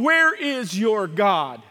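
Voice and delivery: slow, loud taunt; acted mocking question. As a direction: draw out the question to mock him. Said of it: "Mocking him".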